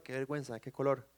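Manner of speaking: low, soft embarrassed aside; mildly sheepish, under the voice. Acted. Preacher mimics someone worried about people around, embarrassed. Imagined embarrassed onlooker-minded person.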